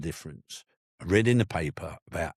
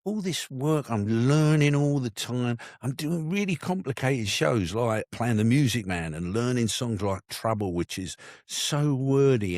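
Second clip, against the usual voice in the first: 1 excited realisation; 6 semitones higher than usual. Retold or imitated. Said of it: "I suddenly thought".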